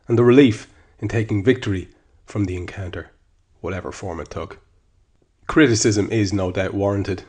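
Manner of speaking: measured, emphatic article narration; column read aloud. Acted. Podcast host reads his match column to listeners, emphatic narration. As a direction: read the written piece out with firm emphasis.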